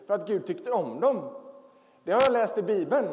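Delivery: put-on high earnest little-kid voice; child's voice. Child explaining the Bible to dad, high earnest voice. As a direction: tell it like a serious four-year-old explaining. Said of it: "sen så säger han".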